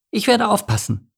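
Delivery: high, resolute penguin voice; determined. A narrator's reading. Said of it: "erwiderte Pogo entschlossen".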